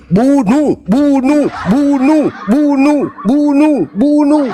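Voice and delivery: high, rhythmic mob chant; shouting loudest. Acted. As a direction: lead the crowd's chant from the front. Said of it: "paling keras, paling depan teriak". (teriakan lantang berulang-ulang)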